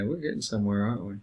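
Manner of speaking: soft, calm counsellor line; gently name the tension with a smile; a hint of soothing counsellor; smiling and calm. Shown as a demonstration. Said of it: "stop and smile and say".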